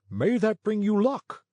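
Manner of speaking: high sweet wish; sugary fat man voice. A narrator's reading. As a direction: purr it sweetly.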